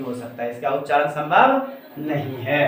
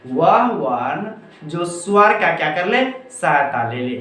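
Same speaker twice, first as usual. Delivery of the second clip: recitation model. Shown as a demonstration. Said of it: "एक बार बोलने का प्रयास कीजिए".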